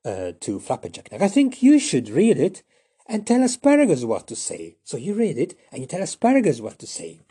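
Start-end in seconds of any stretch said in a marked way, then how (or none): 1.1-4.8 much higher and louder, slowing at the end; girl's voice. Acted. Mortimer siding with Asparagus, high bright girl voice. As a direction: chirp your opinion like a clever girl. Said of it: "she was talking to Flapperjack".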